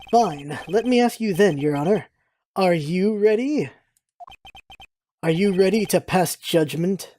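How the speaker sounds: cool, measured challenge to the judge; a hint of a smug courtroom rival; lightly voiced cocky prosecutor. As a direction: challenge the judge with unhurried confidence.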